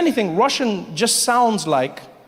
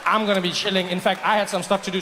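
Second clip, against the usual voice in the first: ordinary talk, nothing marked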